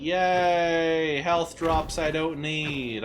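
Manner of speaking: sarcastic. Real, not acted. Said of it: "Sarcasm intended".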